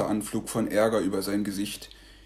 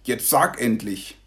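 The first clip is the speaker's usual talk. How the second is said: put-on miffed child; 2 semitones higher, 3 dB louder than usual. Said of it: "sagt Joshua eingeschnappt".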